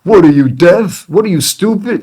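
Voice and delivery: loud, high-pitched Chicago street heckle; Chicago tough guy. Retold or imitated. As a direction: imitate a tough guy tearing into someone. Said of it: "street accent or whatever, you know, tough guy".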